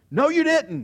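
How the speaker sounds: high, loud, vehement retort; cursing denial. Acted. Peter denying Jesus to an accuser, with a curse. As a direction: shout it down like an oath. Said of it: "he says with a curse".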